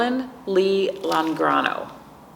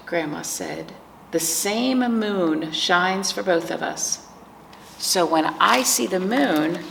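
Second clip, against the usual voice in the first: picture book narration. A narrator's reading. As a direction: read it to preschoolers, lingering on key words. Reads picture book to children.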